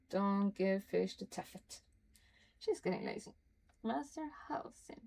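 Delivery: reading a letter aloud, lightly formal. Acted. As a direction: read the note like the writer addressing Nettie. Reads Halsin's letter aloud.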